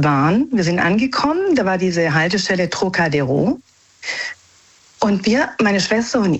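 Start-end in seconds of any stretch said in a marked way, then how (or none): 2.7-3.6 Trocadero said with careful French sounds; good French pronunciation. Real, not acted. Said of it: "deine Aussprache eben gerade war so gut".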